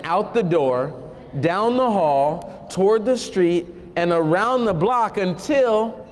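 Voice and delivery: slow, storybook read-aloud; unhurried picture-book narration; reading to children. Acted. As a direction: draw the kids into the story, slowly.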